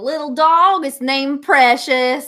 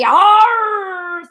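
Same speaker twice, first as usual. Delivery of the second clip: pirate arr; 5 semitones higher, 3 dB louder than usual. Acted. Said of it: "I'm going to confuse everyone and say".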